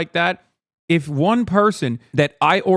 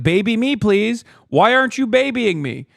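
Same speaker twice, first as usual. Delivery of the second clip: higher-pitched mock demand for babying; 5 semitones higher, 3 dB louder than usual. Streamer imitating people who demand babying, mock demanding. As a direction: imitate a needy whiner insisting. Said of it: "They will literally demand it".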